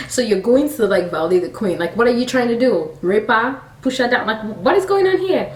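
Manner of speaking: indignant questions rising in pitch; upset. Retold or imitated. King confronting Haman over the queen, acted upset. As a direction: pile up incredulous questions, mock upset. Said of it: "he was so upset".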